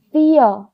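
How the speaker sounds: fear as "fee-uh", ending between o and a; in-between vowel ending. Shown as a demonstration. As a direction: relax the end of fear to a schwa. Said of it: "그 중간의 소리가".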